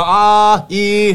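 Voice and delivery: high, loud, drawn-out vowels; sustained vowel test. Retold or imitated. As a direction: hold each vowel long for the doctor. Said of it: "发啊一来".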